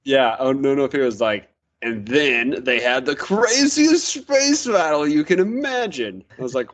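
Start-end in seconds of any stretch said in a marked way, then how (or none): 1.8-6.2 slow, rising hype; mock dramatic. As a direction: oversell the big battle. Mocking the book's line.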